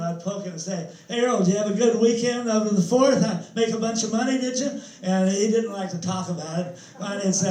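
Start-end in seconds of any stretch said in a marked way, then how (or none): 1.1-4.8 playful needling, a bit louder and higher; chummy ribbing question; teasing. Retold or imitated. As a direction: poke fun at a buddy in line. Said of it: "I was always kidding him".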